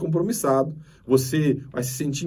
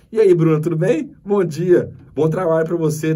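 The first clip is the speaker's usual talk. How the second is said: bright, louder hello with a big smile; cheery loud greeting; 5 dB louder than usual. Retold or imitated. Greeting the attendant Ronaldo, loud and beaming. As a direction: greet him like an old friend, beaming.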